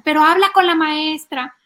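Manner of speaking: high, loud mock kid plea; ruego infantil. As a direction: beg mom like an upset child. Niño ruega a la mamá. (súplica fingida de niño, aguda)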